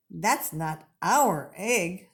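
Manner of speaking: slow, doubtful Missus Bird; a lightly voiced mother bird, puzzled. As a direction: let her slowly doubt the egg.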